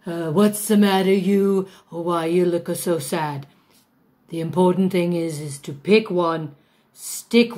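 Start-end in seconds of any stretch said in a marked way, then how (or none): 0.1-3.5 hammed-up Italian accent; lightly done mock Italian, a touch quicker. Shown as a demonstration. Diva showing students an Italian accent, hammed-up. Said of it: "Italian's more easy".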